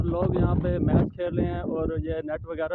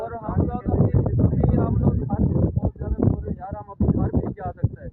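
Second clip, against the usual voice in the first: shouting over wind; 5 semitones higher, 6 dB louder than usual. Real, not acted. Vlogging outdoors in strong wind.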